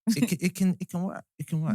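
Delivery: unenthusiastic. Real, not acted. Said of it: "You're not enthusiastic enough for this".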